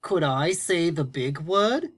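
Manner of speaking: slow, hopeful little puppet plea; puppet Tony asking. Pretend. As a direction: ask it slowly like a timid puppet. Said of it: "What do you want?".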